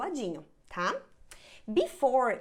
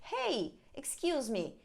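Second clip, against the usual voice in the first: polite tourist asking; 5 semitones higher than usual. Pretend. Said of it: "pede pra própria pessoa".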